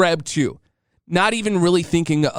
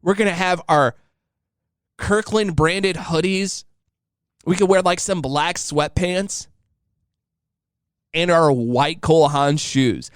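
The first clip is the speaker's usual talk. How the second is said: lightly voiced excited wife. Husband retells wife planning matching outfits, mild mimic. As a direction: mildly mimic her dreaming aloud. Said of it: "But she was like".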